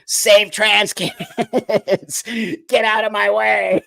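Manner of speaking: loud, high, hammed-up trans activist chant; mock a pushy activist shouting slogans, laughing through it. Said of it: "I don't walk into a room going".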